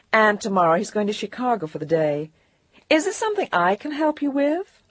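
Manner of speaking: smoothly block the caller; poised secretary. Acted. Secretary politely blocking Jillian's call.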